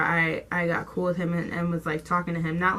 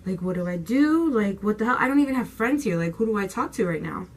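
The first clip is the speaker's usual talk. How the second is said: higher, louder retold panic; freaking out; 4 semitones higher, 4 dB louder than usual. Teen retelling first-day panic with no friends, freaking out. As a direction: act out a mild freak-out. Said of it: "I'm freaking out".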